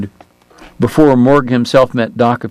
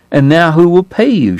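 demanding; 7 semitones higher than usual. Acted. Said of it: "she demanded".

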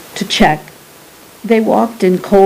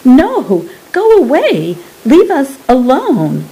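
high, panicked pleading; frightened plea; 7 semitones higher than usual. Acted. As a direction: beg them to leave you alone. Rosie cries out at captors.

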